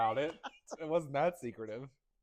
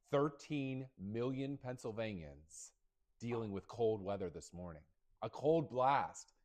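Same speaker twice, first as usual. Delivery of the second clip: slow, dramatic TV news anchor; milk each phrase like breaking news; 3 semitones lower, slower than usual. Pretend. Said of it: "Can I do my anchor voice?".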